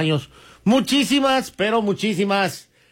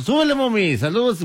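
mocking a caller; 3 semitones higher than usual. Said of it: "El zurdo, bien mentiroso".

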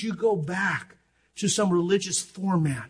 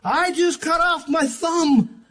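deadpan; 11 semitones higher, 8 dB louder, slower than usual. Retold or imitated. Husband's calm bombshell.

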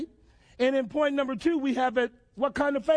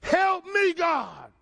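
crying out to God; 5 semitones higher, much slower than usual. Acted. Voicing the soul's prayer.

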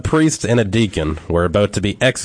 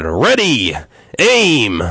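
loud barked command, higher; captain's shout; 5 semitones higher, 5 dB louder, much slower than usual. Acted. Captain orders the firing squad, loud shout. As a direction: call it out like an officer. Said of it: "Again, the captain shouted".

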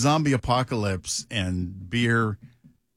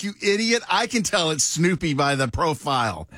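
mock scolding; 6 semitones higher than usual. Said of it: "I'm like".

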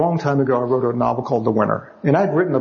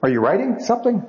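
nosy stranger; 7 semitones higher than usual. Retold or imitated. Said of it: "He goes".

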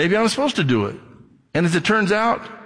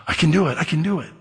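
put-on triumphant child; 3 semitones higher, faster than usual. Child finally succeeds.

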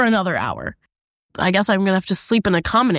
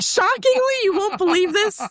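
sarcastic; 9 semitones higher than usual. Retold or imitated. Sarcastic reply three hours later.

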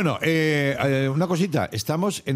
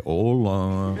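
imitating wife's hello; 3 semitones lower than usual.

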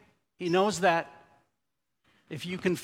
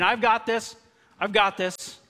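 higher-pitched, confident quoted claim; self-assured; 5 semitones higher, 3 dB louder than usual. Acted. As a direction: voice someone sure they can cope alone. Quoting a self-reliant attitude.

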